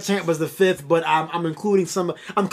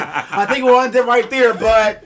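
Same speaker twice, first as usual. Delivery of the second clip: slow, laughing, a touch louder mock sign-off; scared interviewer; 5 semitones higher, 4 dB louder, slower than usual. Quoting the host's nervous sign-off, slow and laughing. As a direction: stretch the goodbye nervously. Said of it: "looked scared".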